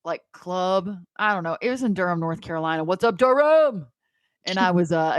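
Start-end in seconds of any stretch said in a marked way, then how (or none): 2.8-3.9 drawn-out mock hollering to a crowd; hammed-up greeting, slow; playful shout-out. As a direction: stretch it like greeting a town.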